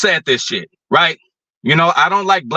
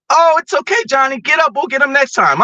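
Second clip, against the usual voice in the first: mocking a soft coach, much higher; a gentle, babying coach played much higher; soft coddling coach; 9 semitones higher than usual. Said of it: "I don't want my coach to say".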